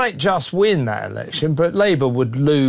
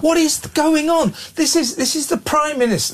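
incredulous outburst; 12 semitones higher than usual. Real, not acted. Host reacting to Downing Street news, incredulous. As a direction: throw the question up in disbelief.

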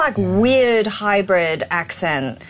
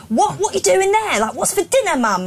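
put-on high-pitched London kids' voices; London accent; 9 semitones higher than usual. Parent imitating own children, high London accent. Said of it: "They sound so London".

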